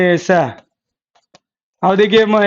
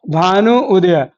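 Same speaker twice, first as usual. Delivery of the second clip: slow, spelled-out; slower than usual. Shown as a demonstration. Teacher slowing down so students hear भानु उदय clearly. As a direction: say भानु उदय slowly, each part drawn out. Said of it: "गौर से देखिएगा".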